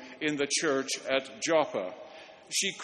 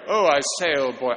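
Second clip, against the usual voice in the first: put-on loud old-boy British accent; 7 dB louder, faster than usual. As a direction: show off a hammy British accent. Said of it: "I do accents".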